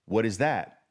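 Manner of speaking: a hint of a sceptical student; doubtful trader. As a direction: ask it like a puzzled trader, lightly voiced. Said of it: "some traders say".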